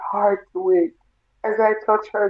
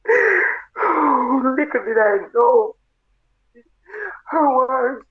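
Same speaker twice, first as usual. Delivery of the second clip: choked up; 4 semitones higher, much slower than usual. Real, not acted. Mother remembering last words.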